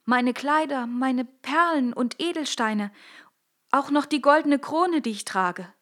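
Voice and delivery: put-on a young princess, upset and pleading. Princess answering the frog in the well, high and upset. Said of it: "sagte sie".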